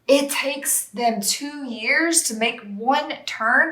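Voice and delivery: slow, puzzled voice of her past self; baffled younger self. Retold or imitated. Retelling her old confusion about a game's time scale, slow and baffled. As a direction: drag out the confusion like a clueless beginner. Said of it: "I remember sitting here going".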